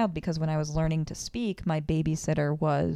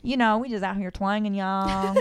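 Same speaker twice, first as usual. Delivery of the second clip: Southern twang; 3 semitones higher, 3 dB louder than usual. Acted. Teased about the accent, playing up a Southern twang. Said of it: "a little bit of a twang".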